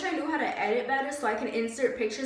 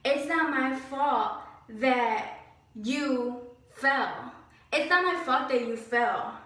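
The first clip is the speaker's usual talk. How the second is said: mock boss; slower than usual. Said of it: "he freaking said".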